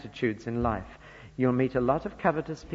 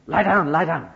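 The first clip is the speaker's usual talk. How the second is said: shepherd calling out; 3 semitones higher, 7 dB louder than usual. Retold or imitated. Preacher mimics a shepherd calling his sheepdog, loud. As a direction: call the dog down across the field. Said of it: "Sorry if I get excited about this".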